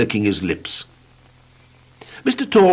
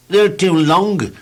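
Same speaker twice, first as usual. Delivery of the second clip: drawn-out, higher woeful voice; slow mournful complaint; 9 semitones higher, 4 dB louder than usual. Acted. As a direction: moan about the legs slowly. Gloomy Mister Tall answers.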